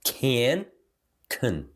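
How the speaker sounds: full form then weak form; can reduced. Shown as a demonstration. Teacher comparing full and reduced words for students. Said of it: "Só pra você ver".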